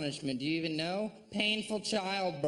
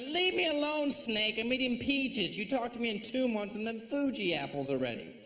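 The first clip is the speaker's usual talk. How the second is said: brushing off snake; 5 semitones higher than usual. Pretend. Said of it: "I'm like".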